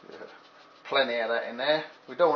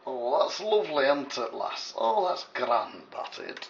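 put-on Northern English accent. Host addresses the lass in a light Northern English accent. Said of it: "That's Northern England accent".

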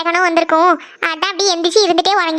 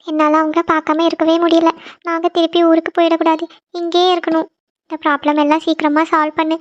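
whispered-down prayer. Acted. Girl prays alone at night.

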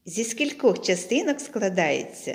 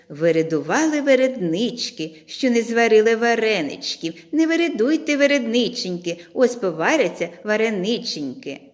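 same chant, a little quicker; faster tongue twister; 3 semitones higher, 4 dB louder than usual. Shown as a demonstration. Teacher repeats the tongue twister with pupils, quicker chant. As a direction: rattle it off quicker, still sing-song. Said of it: "промовимо разом зі мною ще скоріше".

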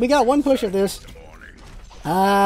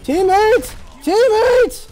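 shouting for teammates to group up; calling out; 8 semitones higher, much slower than usual. Real, not acted. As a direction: summon teammates across the map. Calling team before the ult.

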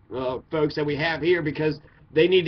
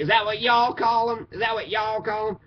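higher-pitched mock questioning; retold challenge; 4 semitones higher than usual. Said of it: "and she's like".

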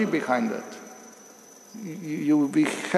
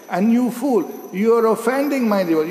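stern rebuke; 7 semitones higher than usual. Retold or imitated. Lord rebukes Durvasa.

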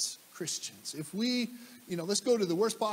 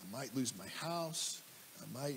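worried inner voice; 7 semitones lower, 11 dB quieter than usual. Retold or imitated. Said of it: "I'm like".

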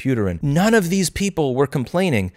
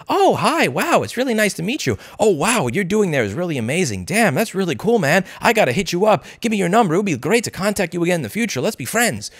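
mock over-friendly, higher voice; gushing Californian; 4 semitones higher than usual. Californian meeting someone new, mock gushing and higher. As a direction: lightly play a fake-nice Californian networker. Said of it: "people say".

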